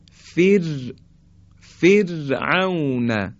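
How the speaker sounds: فر then فرعون, R thin, slowly drawn out; light R. Shown as a demonstration. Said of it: "حالا دقت کنید". (فرعون کشیده با «ر» نازک)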